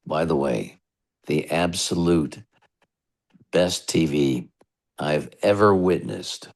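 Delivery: smooth sign-off read, pausing between phrases; radio station drop. Real, not acted. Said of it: "I'd love one for this show".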